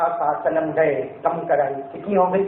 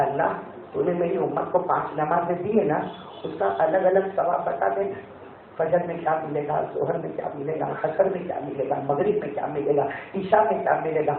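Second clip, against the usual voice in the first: soft plea; 3 semitones lower, 5 dB quieter than usual. Acted. Prophet's humble request.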